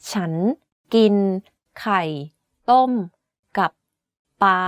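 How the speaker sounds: ฉัน กิน ไข่ ต้ม กับ ป๊า each word apart with clear pauses; slowly, word by word. Shown as a demonstration. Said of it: "Let me say this sentence again slowly".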